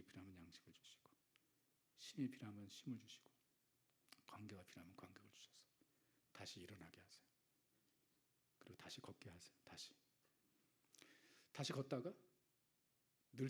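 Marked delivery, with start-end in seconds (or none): 4.3-7.2 softer, hushed promise; whisper. Acted. Pastor comforting the congregation, whispered. 8.6-9.9 softer, hushed promise; whisper. Acted. Pastor comforting the congregation, whispered.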